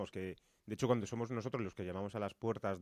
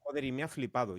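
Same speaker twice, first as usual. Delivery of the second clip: imitating a gushing, higher-pitched funder; mock excited call; 4 semitones higher, 4 dB louder than usual. Funder calling Pachi after the hit, mock excited. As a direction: play up the sudden enthusiasm. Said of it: "sí que nos llamaron".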